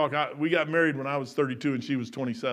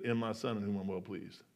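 hushed divine voice; 8 semitones lower, 14 dB quieter than usual. Retold or imitated. God's voice retold hushed.

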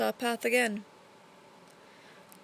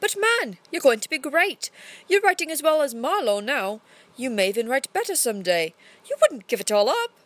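higher and louder, insisting; excited protest; 4 semitones higher, 4 dB louder than usual. Acted. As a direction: urge him not to quit. Burbage protests Shakespeare quitting.

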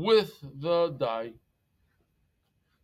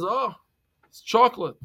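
delighted monkey; 8 semitones higher, 4 dB louder than usual. Acted. Monkey voiced in the story.

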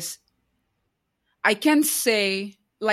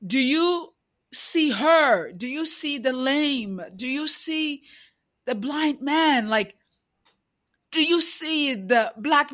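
emotion rising in the voice, pitched higher; getting emotional; 5 semitones higher than usual. Real, not acted. Moved while asking the church if they see the man, emotional. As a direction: let the feeling break through as she asks. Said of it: "I'm getting emotional".

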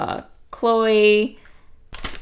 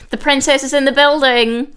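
Kim impression; 6 semitones higher than usual.

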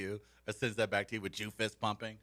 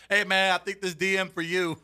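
mock friendly greeting; 6 semitones higher, 7 dB louder than usual. Imitates Dockett chat.

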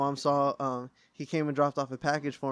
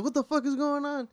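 high-pitched mock bewilderment; bewildered; 11 semitones higher than usual. Retelling reaction to Mom's greeting, baffled. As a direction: replay the confusion, pitch jumping up.

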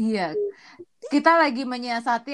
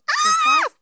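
laughing; 6 dB louder than usual. Real, not acted. Bursts out laughing at start.

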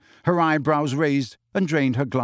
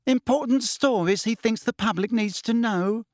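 much higher, mocking echo of Luna's line; withering; 9 semitones higher than usual. A narrator's reading. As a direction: throw her words back with scorn. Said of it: "she said witheringly".

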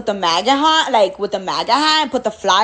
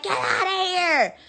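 drawn-out, higher mock yell; retold yell; 4 semitones higher, 4 dB quieter than usual. Recounting what they yelled at Michelle, mock yell. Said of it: "They were yelling at Michelle".

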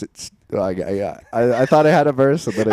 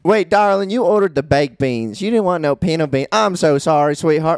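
lightly voiced fussing southern waitress, higher; 3 semitones higher than usual. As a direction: play a doting diner waitress calling everyone darling.

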